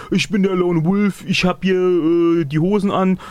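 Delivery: wrestler trash talk. Retold or imitated. Mock wrestler trash talk promo.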